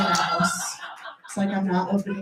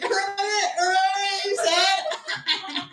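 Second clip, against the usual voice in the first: mock sweet taunt; 10 semitones higher than usual. Planned taunt to the date.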